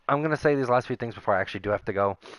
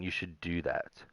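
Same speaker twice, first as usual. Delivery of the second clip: whisper; 4 semitones lower, 10 dB quieter than usual. Retold or imitated. Reading ex's text.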